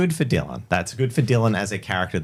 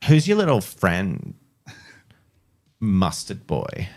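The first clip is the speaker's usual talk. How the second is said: put-on mean girl voice; slower than usual. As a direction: tease him in a snotty girl voice. Vanessa taunts, high voice.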